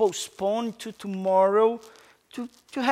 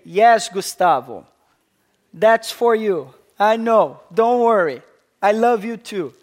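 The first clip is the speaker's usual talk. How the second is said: voice of God; 6 dB louder than usual. Acted. Voicing God answering the listener.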